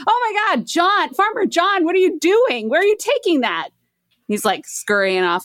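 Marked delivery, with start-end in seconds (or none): 0.1-3.7 panicked new mother crying out; sheep voice. Retold or imitated. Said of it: "And then".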